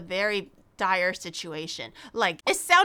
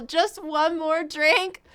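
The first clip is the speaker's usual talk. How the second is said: slow questioning mock; 5 semitones higher, much slower than usual. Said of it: "that is terrible mentality".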